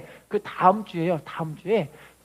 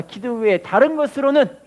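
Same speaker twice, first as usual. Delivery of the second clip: slow, louder recitation to repeat; slow call and response; 4 dB louder, slower than usual. Shown as a demonstration. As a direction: read it slowly for the church to follow. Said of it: "따라합시다".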